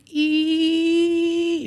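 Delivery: high sustained "eee" squeal; tea kettle whistle. Retold or imitated. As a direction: imitate a kettle on the boil. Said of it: "like a tea kettle going".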